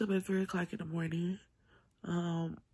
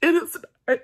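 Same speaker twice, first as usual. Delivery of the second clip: louder and much higher, pushing through hurt; raised emotional voice; 5 semitones higher, 7 dB louder than usual. Real, not acted. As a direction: let it burst out that silence isn't okay. Venting about hurt, voice rising.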